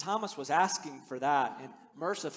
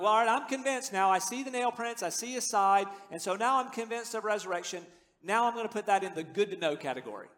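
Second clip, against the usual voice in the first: mock apathy. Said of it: "That makes no sense".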